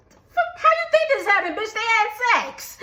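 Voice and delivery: high, laughing, incredulous outburst; fast mock retort through laughter; laughing disbelief. Mock reply to mom's question.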